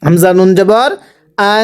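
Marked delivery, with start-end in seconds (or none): 1.5-1.6 আং with a long nasal hum; ghunnah. Shown as a demonstration. Teacher models noon sakin for students, ghunnah. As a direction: hold the ং of আং through the nose. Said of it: "গুন্নাহ করব".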